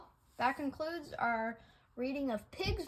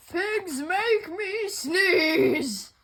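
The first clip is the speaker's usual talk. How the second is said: distressed exclaim; 8 dB louder, much slower than usual. Acted. Gerald tells the doctor.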